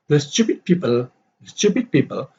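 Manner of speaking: STU-pid PEO-ple, first syllables stressed; stressed-unstressed pattern. Shown as a demonstration. Dave's complaint read to show stressed-unstressed pattern. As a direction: hit the first half of "stupid" and "people". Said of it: "stupid is a yam, uh, stress, unstress".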